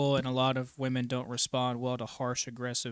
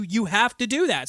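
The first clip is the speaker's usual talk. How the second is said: ordinary talk, nothing marked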